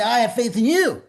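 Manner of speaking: a hint of a tender Jesus reassuring you; Jesus speaking kindly to the believer, mildly voiced; voicing Jesus. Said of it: "Jesus looked at me and said".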